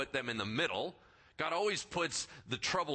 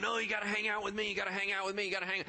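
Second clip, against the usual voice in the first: higher, insistent nagging; insistent host; 5 semitones higher, much faster than usual. Acted. Host keeps frustrated guests hanging around, insistent. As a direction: press them to stay, repeating in a rush.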